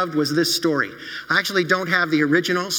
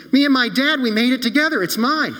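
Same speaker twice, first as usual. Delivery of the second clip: put-on higher and louder, a boy's outraged cry; indignant protest; 7 semitones higher, 4 dB louder than usual. Billy protesting to the shop owner, indignant and loud. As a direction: insist like a wronged child.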